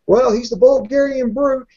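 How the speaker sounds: mock bewildered booth voice; mock commentator. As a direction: play the confused announcer thinking aloud. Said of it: "You know, it's like".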